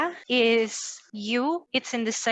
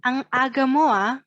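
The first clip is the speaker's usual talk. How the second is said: quick, connected and a little louder; faster; 2 semitones higher, 4 dB louder, faster than usual. Shown as a demonstration. Teacher has learners say it faster, quickly. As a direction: run it together briskly. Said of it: "Let's say it faster".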